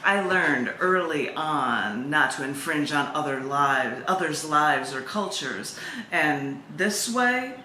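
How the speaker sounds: unhurried, even recital of the poem; poem reading. Acted. Poet reading her sea lion poem aloud, steady and calm.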